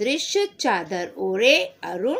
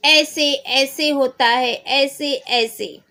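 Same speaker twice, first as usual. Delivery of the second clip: whiny, near tears, loud; 4 semitones higher, 4 dB louder, slower than usual. Acted. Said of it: "रुआसा सा बड़े जोर से".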